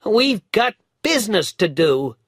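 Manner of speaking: put-on boy crying out in a hurry; eager cry. A narrator's reading. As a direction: call it out, already running off. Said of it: "cried Dick".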